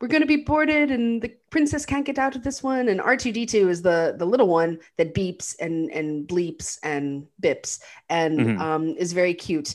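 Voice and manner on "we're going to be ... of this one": put-on, very English accent, pitched high. Retelling a story to a listener, quoting C-3PO, English accent. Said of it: "He's got a very like English accent".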